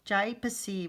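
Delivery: "Jai, psi" as jye-puh-see; wrongly split gypsy. Shown as a demonstration. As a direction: misread gypsy with a long I in "Jai". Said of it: "that doesn't make any sense".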